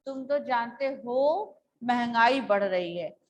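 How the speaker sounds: slow reading, a short break after हो, falling to the end; brief pause after हो. Shown as a demonstration. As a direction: linger on हो, then finish महंगाई बढ़ रही है with a fall. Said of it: "अब हो के बाद जब जहां हम थोड़ा सा रुकते हैं".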